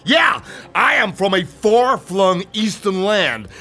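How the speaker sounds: booming, high-pitched showman uncle; Abanazar. Acted. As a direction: announce yourself loudly and grandly, stretching the words. Voices great-uncle Abanazar introducing himself.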